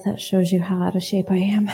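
airless, whispered aside; no breath left, just air; breathless whisper. Real, not acted. Telling the congregation she's out of shape, breathless. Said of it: "out of breath".

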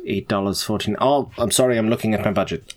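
normal talking voice

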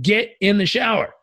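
mock exasperated coach command; acted firm order. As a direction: order him in, no excuses. Coach ordering client into shower.

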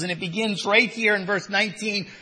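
ordinary delivery

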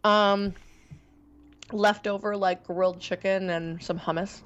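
chewing while talking; talking through food; mouth full. Real, not acted. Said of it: "What are you eating?".

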